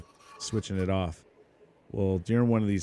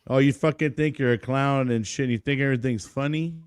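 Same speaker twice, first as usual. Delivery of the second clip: retold instructor scolding; 4 semitones higher than usual. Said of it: "my drill instructors got word on that one".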